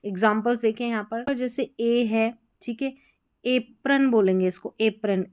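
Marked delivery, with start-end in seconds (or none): 3.5-4.1 एप्रन with ए said as the letter name A; एप्रन as "AY-prun"; alphabet-sound A. Shown as a demonstration. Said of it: "ए जो है अपना alphabet sound से जाना जाएगा". 4.8-5.2 एप्रन starting on the letter name A; long "ay" at the start of एप्रन; alphabet-sound A. Shown as a demonstration. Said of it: "ए जो है अपना alphabet sound से जाना जाएगा".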